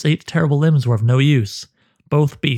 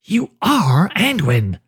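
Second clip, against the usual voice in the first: higher, slow, otherworldly naming; eerie spider voice; 6 semitones higher, slower than usual. Acted. The hooded one names Gala as its head is crushed, slow eerie voice. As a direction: stretch each word like a voice from nowhere. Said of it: "the voice said".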